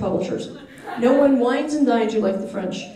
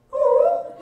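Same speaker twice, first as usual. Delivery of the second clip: high, small deflated oh; crestfallen oh. Retold or imitated. Answering the translator, a high hurt oh. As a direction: sound crushed by her remark. Second crushed reaction.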